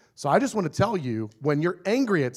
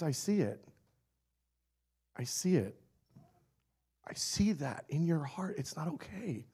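gentle God voice; 2 semitones higher, 6 dB quieter than usual. Acted.

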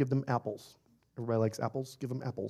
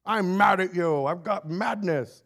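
slow, puffed-up fake tough voice; mock a self-important angry person; hammed-up posturing; mock angry tough talk; 5 semitones higher, 4 dB louder, slower than usual. Mocking the angry person's pride.

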